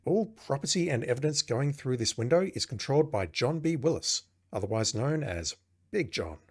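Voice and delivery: announcer-like read of game text; game narration. Acted. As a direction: read it out as an official notice. Reads game text aloud.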